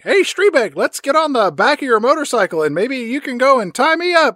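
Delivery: granny voice. Retold or imitated. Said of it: "Granny Mundy's like".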